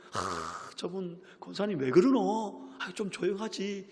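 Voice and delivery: 한숨 뒤 높고 작게 투덜대기; 못마땅해서 수군대는 권사님들처럼; 삐딱한 핀잔 흉내. Retold or imitated. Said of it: "삐딱한 눈으로 보기 시작하는". (삐딱하게 구시렁대는 말투)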